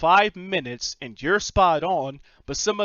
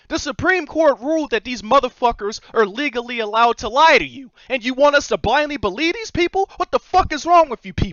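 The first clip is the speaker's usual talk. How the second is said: angry, furious ranting; 7 semitones higher, 5 dB louder than usual. Speaking to people they disagree with, delivering an angry rant. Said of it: "Yeah, I'm angry".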